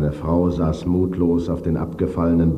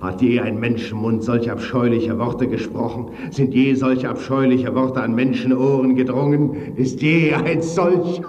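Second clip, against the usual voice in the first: higher and louder, slowing at the end; rising outrage; 8 semitones higher, 4 dB louder than usual. A narrator's reading. Ghost cries out at his wife's vile words, anguished. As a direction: build the anguish toward breaking.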